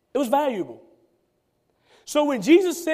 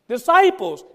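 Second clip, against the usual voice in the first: preached emphasis; 6 semitones higher, 5 dB louder than usual. Real, not acted. Preacher's one-word answer.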